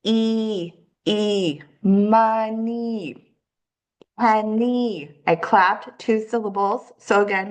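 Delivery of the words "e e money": E drawn out as a long ee, then money ending on ee; long E sound demo. Shown as a demonstration. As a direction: stretch the long ee. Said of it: "the long E sound".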